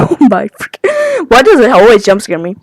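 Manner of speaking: shaky laugh after a fright. Real, not acted. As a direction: laugh off the scare.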